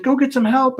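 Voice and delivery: high-pitched urgent plea; retold urgent order. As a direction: imitate a kid sending a friend for help. Retold urgent order after accident.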